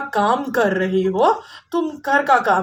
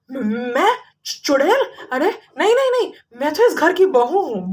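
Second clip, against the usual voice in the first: panicked denial; 4 semitones higher, faster than usual. Acted. Accused witch denies in panic.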